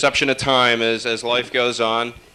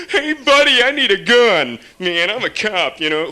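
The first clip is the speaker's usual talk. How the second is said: Bowery extra; 7 semitones higher than usual. Retold or imitated. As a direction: demand a gun like a street guy. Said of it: "twelve guys from the Bowery".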